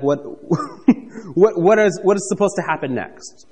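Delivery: laughing in mock confusion at the offering; a baffled chuckle, breaking into a laugh; puzzled angel, laughing. The preacher as the angel, baffled by Gideon's offering, laughing. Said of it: "if I were the angel of the Lord".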